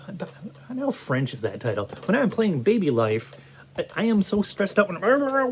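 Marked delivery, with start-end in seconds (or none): 0.1-1.9 breathy whisper, no voice; whispered aside. Real, not acted. Whispering an aside about the French-sounding title. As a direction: slip it in as a hushed joke.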